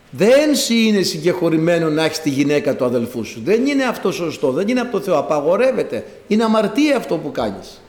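emphatic preacher-as-prophet admonition; John's rebuke. Retold or imitated. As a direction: voice a prophet condemning sin. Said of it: "η φωνή βοόντος εν τη ερήμο, του έλεγε".

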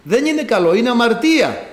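lightly acted moral scolding; nagging conscience. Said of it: "ενοχλητική αυτή η φωνή της συνείδησης".

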